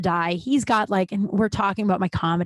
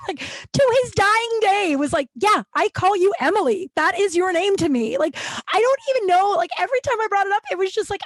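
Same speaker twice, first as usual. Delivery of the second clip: laughing through words; 10 semitones higher than usual. Real, not acted. Still laughing retelling dad.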